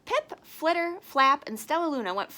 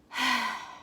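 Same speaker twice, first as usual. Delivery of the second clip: sad sigh. A narrator's reading. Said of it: "Stellaluna sighed".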